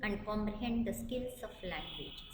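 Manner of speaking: each word spelled out slowly for note-taking; slow dictation. Acted. Teacher dictating a definition to students, slow and deliberate. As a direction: read it slowly so students can write.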